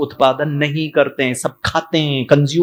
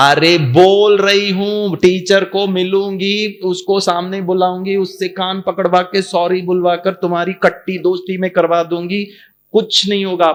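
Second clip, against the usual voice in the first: impatient mother; 5 semitones higher than usual. Retold or imitated. Mother promising revenge to stop the crying, exasperated. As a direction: insist wearily, stretching it.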